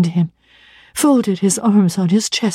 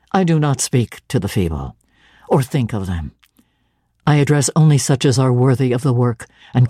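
a touch lower, firm missionary zeal; lightly voiced stern minister; 5 semitones lower than usual. St. John lays out his calling to Jane, lightly lower and firm.

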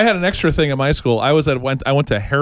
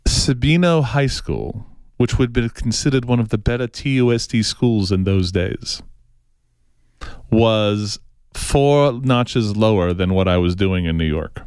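snob voice; 2 semitones lower than usual. Pretend. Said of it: "I'm gonna do my best snob voice".

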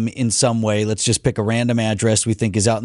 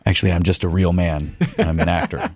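deep Aquaman voice; 8 semitones lower than usual. Pretend. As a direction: play the gruff sea king. Voicing Aquaman as a joke.

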